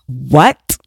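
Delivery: low rising what; disbelieving what; incredulous. Acted. Reacting to laundry called self-care, incredulous.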